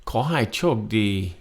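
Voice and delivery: Ko hai chok D said slowly, tone by tone; slow model phrase. Shown as a demonstration. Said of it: "teacher models phrase slowly".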